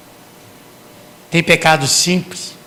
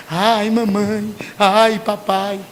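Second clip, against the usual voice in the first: mock child crying; 3 semitones higher, much slower than usual. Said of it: "ele começa a chorar".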